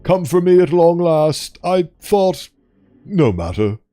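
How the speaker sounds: a hint of a refined creature; lightly voiced posh creature. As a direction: speak as a calm, superior ancient beast. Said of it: "six eight two sounds like posh".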